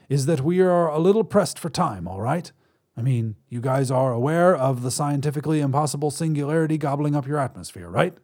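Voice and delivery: a hint of an impatient alien. Alien explaining hurriedly.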